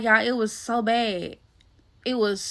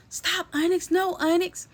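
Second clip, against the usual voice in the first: retold scolding; 6 semitones higher than usual. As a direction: lightly imitate calling off a pet. Retold cry at attacking pet.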